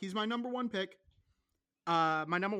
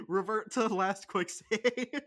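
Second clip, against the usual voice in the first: laughing; 4 semitones higher, 4 dB louder than usual. Real, not acted. Joking about game rewind.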